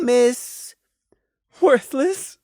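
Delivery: high, whispered jab; spiteful whisper. Acted. Prey secretly mocking the mare, spiteful whisper.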